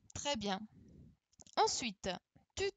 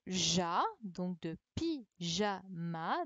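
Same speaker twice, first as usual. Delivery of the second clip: slowly stressing the syllable ja; slow syllable demo; 4 semitones lower, slower than usual. Shown as a demonstration. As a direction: say "pyjama" slowly, leaning on ja. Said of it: "syllabe montrée lentement". (prononcer lentement « pyjama »)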